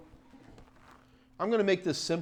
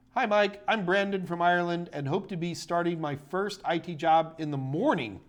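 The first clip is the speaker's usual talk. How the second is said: a hammed-up, half-hearted Irish accent; lightly put-on Irish lilt, mostly his own voice; very bad Irish accent; 3 semitones higher than usual. Streamer greeting an Irish viewer, very bad Irish accent. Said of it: "I can do a very bad Irish accent".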